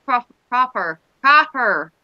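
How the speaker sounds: broad Norfolk vowels, slipping in on "proper"; rustic Norfolk English, drawing out "proper"; Norfolk accent. Shown as a demonstration. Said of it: "gone Norfolk without trying".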